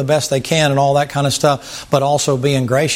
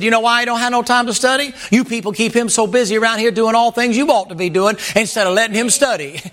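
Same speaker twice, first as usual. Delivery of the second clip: higher, slowed, preachy mock sermon voice; imitating an old preacher; 8 semitones higher than usual. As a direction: ham up the old preacher scolding the congregation. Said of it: "He said".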